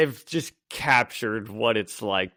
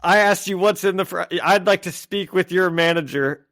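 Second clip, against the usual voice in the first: put-on higher, indignant old lady complaint; mock angry customer; 6 semitones higher, 4 dB louder than usual. Old lady snaps at fast food worker, mock angry. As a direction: act out a mildly outraged customer, pitched up. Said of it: "starts kinda getting angry".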